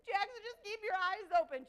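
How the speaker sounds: loud urgent call; will him to stay awake; urgent plea. Retold or imitated. Contestant urging fainting teammate, loud and urgent. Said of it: "I'm just like".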